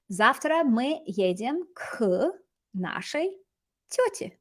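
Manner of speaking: slow, with pauses before the last words; slow model reading. Shown as a demonstration. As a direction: build the sentence slowly for learners. Teacher models sentence slowly, then repeats.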